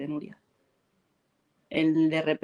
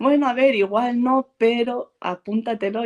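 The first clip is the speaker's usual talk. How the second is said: loosely voiced producer; 5 semitones higher, 4 dB louder than usual. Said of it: "fue como de".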